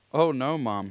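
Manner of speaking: put-on a boy begging not to go; dismayed plea. A narrator's reading. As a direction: Shane blurts out a frightened "oh no" at his mother. Boy dreads confessing to store.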